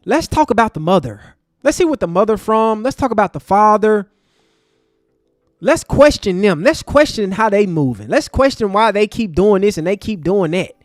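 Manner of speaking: loud sarcastic impression of critics; mocking critics. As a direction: throw their words back at them, loud. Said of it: "some black people that's out here saying".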